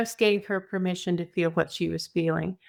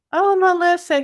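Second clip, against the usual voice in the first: gentle dad; 10 semitones higher, 6 dB louder than usual. Retold or imitated. Dad voiced comforting child.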